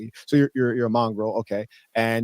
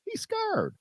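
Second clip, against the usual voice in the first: taunting; 9 dB quieter than usual. Acted. Guest taunts, voice jumps.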